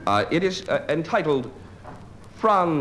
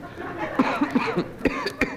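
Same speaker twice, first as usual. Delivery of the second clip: muffled cough demonstration; 13 semitones higher than usual. Shown as a demonstration. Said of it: "if you could cough into a handkerchief".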